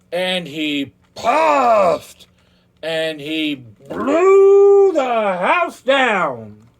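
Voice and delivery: slow, loud, straining huffs; huffing and puffing. A narrator's reading. Wolf blows down the stick house, slow loud huffing. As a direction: drag every word out with a huge blow.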